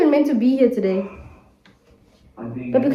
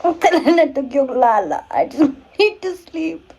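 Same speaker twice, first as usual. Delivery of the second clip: laughing tired; 3 semitones higher, 4 dB louder, much slower than usual. Real, not acted.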